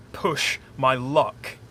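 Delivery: "push my luck" said slowly and deliberately; slow, careful phrase. Shown as a demonstration. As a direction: spell out "push my luck" word by word. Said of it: "this is where my accent gets tripped up".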